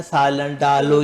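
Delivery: سالن ڈالو said slowly to show ڈ; slow example. Shown as a demonstration. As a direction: drag out ڈالو. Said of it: "روٹی ڈالو بولتے ہیں نا". (ڈ کی آواز کے لیے آہستہ سالن ڈالو)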